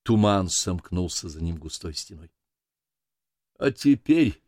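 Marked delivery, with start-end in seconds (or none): 3.6-4.4 «А теперь» raised, solemn, falling; sermon opening. A narrator's reading. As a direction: begin as if about to preach. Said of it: "глубоко вздыхая, как бы перед началом проповеди". (торжественно, как начало проповеди)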